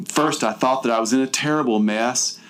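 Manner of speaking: lightly theatrical recital of a silly poem; dramatic reading. Shown as a demonstration. Host reading the heroine's poem aloud, with mild mock drama. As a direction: read it like a mock-earnest school recital. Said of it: "I'm gonna do my dramatic reading".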